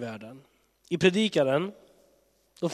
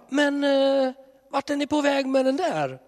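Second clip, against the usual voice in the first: higher God voice, curious; puzzled God; 11 semitones higher, 4 dB louder than usual. Pretend. Preacher voicing God asking people where they're going, higher and curious. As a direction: ask like a wary parent.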